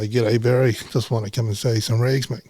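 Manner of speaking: lightly voiced friendly salesman; a hint of a forced chummy pitch; put-on sales voice. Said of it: "I don't fucking talk like that".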